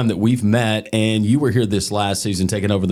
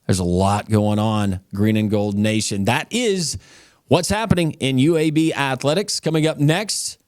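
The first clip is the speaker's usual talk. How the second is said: upbeat, higher sportscaster's round-up voice; sports news read; 5 semitones higher than usual. Acted. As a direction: rattle off the scores like a campus sports anchor.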